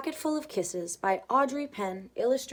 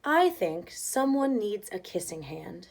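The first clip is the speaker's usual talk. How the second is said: warm and inviting; slower than usual. Acted. Mother offers Chester a kissing hand, slow warm inviting voice. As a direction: coax him gently, slowly. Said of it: "in a voice that was warm and inviting".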